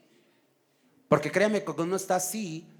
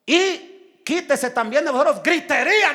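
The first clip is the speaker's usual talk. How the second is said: raised, loud scripture proclamation; forceful preaching; 6 semitones higher, 7 dB louder than usual. Real, not acted. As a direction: belt out the command to the congregation. Preacher calls out verse on shouting. (predicación enérgica, casi a gritos)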